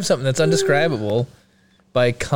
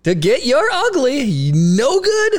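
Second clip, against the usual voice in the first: put-on Minnesota accent; 10 semitones higher than usual. Gangster movie threat redone in a Minnesota accent. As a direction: bark the threat in an over-the-top Minnesota accent. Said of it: "movie quote ... Minnesota accent".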